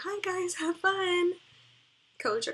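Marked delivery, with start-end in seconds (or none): 0.0-1.3 chirpy greeting. Retold or imitated. Kid three greets the smokers.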